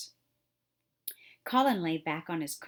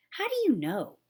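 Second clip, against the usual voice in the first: unsympathetic; 5 semitones higher, 7 dB louder than usual. A narrator's reading. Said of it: "said Mary unsympathetically".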